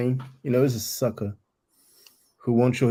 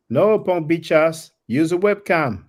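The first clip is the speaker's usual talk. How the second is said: reading the chat mockingly; 4 semitones higher, 3 dB louder, slower than usual.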